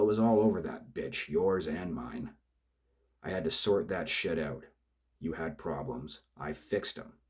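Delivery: bully him into silence; angry thug. Acted. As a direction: killer yelling at his crying partner to shut up. Killer shouts down partner.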